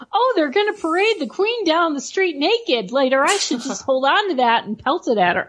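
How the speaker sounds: mock eager townsperson making plans; imagined onlooker. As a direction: play a would-be heckler hatching a plan. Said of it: "Was it like somebody went".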